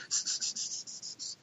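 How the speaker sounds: unvoiced s-s-s of wings; whispered wing hiss. Hunter imitates the hiss of flaring wings, voiceless. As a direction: hiss out the wingbeats.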